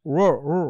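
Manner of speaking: রো, রো with a rounded untrilled English r; isolated English R. Shown as a demonstration. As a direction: sound out রো twice, gliding r. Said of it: "এরকম একটা উচ্চারণ হয়".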